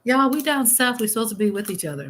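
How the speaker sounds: high squeaky retold what; mock outrage at the rivalry; playful disbelief at the news; incredulous. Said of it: "I'm like".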